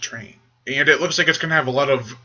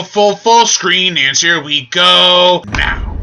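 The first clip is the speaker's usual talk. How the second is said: slow, loud, high hype; excited; 5 semitones higher, 6 dB louder, much slower than usual. Real, not acted. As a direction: build up the big start slowly. Hyping the trailer start.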